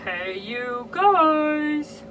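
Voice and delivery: high, slow, loud drawn-out "Hey, you guys"; hammed-up Midwestern greeting. Shown as a demonstration. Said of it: "Can you tell I'm from the Midwest?".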